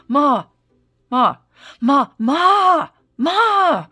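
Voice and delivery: put-on high, loud whiny meowing like a toddler calling mom; relentless, whiny cat-meow "ma". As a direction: imitate a cat nagging like a whiny two-year-old. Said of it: "like a two-year-old's whiny voice".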